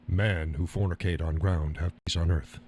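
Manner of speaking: low, measured mock Native American accent. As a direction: recite it as a stereotyped Native American saying. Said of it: "It sounds like a Native American".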